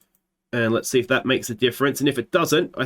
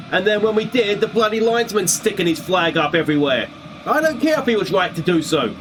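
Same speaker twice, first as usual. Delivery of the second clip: angry manager rant; 4 semitones higher than usual. Pretend. Plays angry manager in interview.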